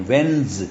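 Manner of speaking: وینز as one syllable, "wenz"; silent D, Z sound. Shown as a demonstration. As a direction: say وینز ending in a buzzed Z. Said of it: "ڈی silent ہے".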